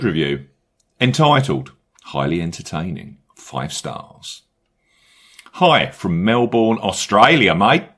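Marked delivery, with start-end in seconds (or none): 5.5-7.8 hammed-up Aussie accent, slow opening; bad Australian accent. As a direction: read it in a badly faked Australian accent. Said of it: "opportunity to do a bad accent".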